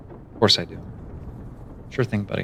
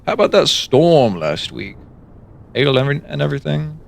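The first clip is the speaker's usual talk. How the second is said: small talk; 4 semitones higher, 5 dB louder than usual. Pretend. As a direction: make forced small talk like a stranger. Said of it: "Small talk".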